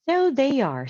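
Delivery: the husband exclaims, surprised and won over; loud, high "so they are" from the husband; Mr Rogers' voice. A narrator's reading.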